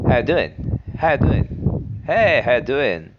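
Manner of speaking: upbeat casual hey how you doing; friendly greeting. Shown as a demonstration. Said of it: "When you speak quickly or friendly, it sounds in this way".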